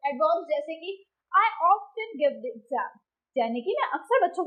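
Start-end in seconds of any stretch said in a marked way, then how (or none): 1.4-2.9 slow example with weight on "often"; stress on often. Shown as a demonstration. Teacher showing adverbs take stress, stressing "often". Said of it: "adverbs are also given more stress".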